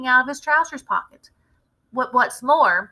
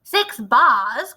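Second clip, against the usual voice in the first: greedy cry; 2 semitones higher, 7 dB louder than usual. Acted. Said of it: "cried the greedy little swine".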